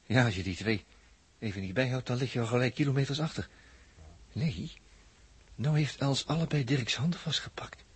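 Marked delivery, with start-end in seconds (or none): 4.3-7.8 hushed whisper. Acted. Watching the couple in secret.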